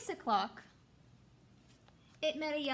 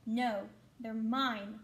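slow, grumpy mock scream; grouchy ladybug voice; 2 semitones lower, much slower than usual. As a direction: stretch it out like a spoiled bug. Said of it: "screamed the grouchy ladybug".

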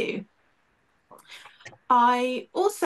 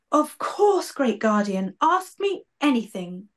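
tearful imp; 2 semitones higher than usual. Acted. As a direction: answer through tears of devotion. Tearful imp answers dying guardian.

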